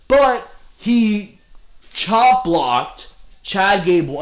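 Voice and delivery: loud, slow and fed up; angry outburst. Real, not acted. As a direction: vent about the bad booking. Angry rant about wrestling booking.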